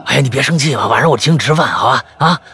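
响亮地赔着笑哄人; 连忙哄对方别生气; 讨好地哄. Acted. 哄生气的小白. (师兄连忙讨好地哄小白别生气)

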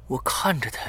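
ordinary delivery, nothing marked

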